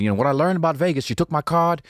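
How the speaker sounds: high-pitched imitation of an Australian storyteller; Australian accent. Australian recounting a Vegas trip on the boat, imitated Australian accent. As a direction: tell it as a mock Australian, pitched well up. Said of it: "this one Australian was telling a story".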